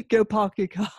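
Boston accent with dropped R's; playful Boston accent imitation. Shown as a demonstration. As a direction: demonstrate Boston speech, dropping the R in car. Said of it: "even in Boston, you know, they've got".

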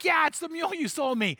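high put-on voice for the friend; friend's voice. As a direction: play the proud new owner.

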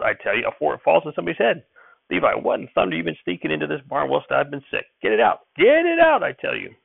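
high-pitched, ranting grandfather's shout; angry shouting. A narrator's reading. Grandfather orders the contraption out of the barn, shouting angrily. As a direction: holler it high in outrage, peaking on the orders. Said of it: "and he shouted".

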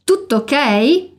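"Tutto ok?" said slowly, the T's held; slow, careful "Tutto ok?"; a teacher drawing "Tutto ok?" out slowly; slow model phrase. Shown as a demonstration. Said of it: "Essa também é uma expressão bastante usada".

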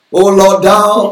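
a hammed-up King James prayer; mock heavenly prayer voice. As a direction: pray grandly as if in heaven's language. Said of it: "some of you think that is heavenly language".

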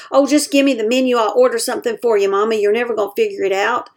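fast, brisk and dismissive; impatient. Shown as a demonstration. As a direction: rush it, talking down to her. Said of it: "you could say".

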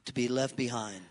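dropped low and soft; solemn hush. Real, not acted. Preacher to congregation on being left behind: hushed and grave. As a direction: let the words sink, almost under the breath.

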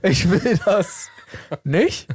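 slow high "will", pause, rising "nicht"; questioning tag NICHT. Shown as a demonstration. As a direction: declare it, then ask "nicht?". Repeats the tag-question take.

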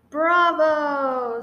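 hearty bravo. Acted. Lion praises the final pounce.

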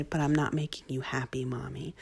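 put-on whispered, small child voice, fading soft; son's worried whisper. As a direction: breathe it like a worried little boy. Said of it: "he'll say".

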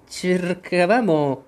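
hesitant, drawn-out humble voice. A narrator's reading. Gardener kneels explaining himself to the queen, very humble. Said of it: "con tono assai umile".

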